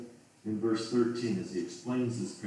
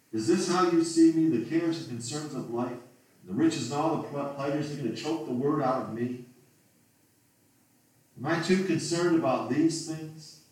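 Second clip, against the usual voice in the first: pressing, louder appeal; urgent plea; 4 semitones higher, 4 dB louder than usual. Real, not acted. Preacher pleading with the Lord about his cares, urgent and louder. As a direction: push each question as a confession.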